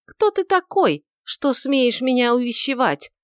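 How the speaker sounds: high, loud scornful challenge; contemptuous. A narrator's reading. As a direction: look down on him. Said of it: "спросила она презрительно".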